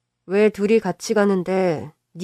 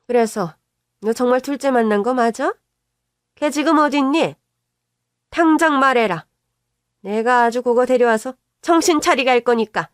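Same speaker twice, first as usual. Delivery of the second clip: put-on higher, shrill-edged older woman scolding; an indignant mother defending her son; scolding mother-in-law; 4 semitones higher, 5 dB louder than usual. Mother-in-law scolding daughter-in-law for accusing her son, indignant.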